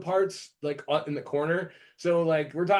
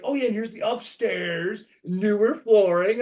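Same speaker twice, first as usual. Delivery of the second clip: mock real estate agent; 2 semitones higher, 4 dB louder than usual.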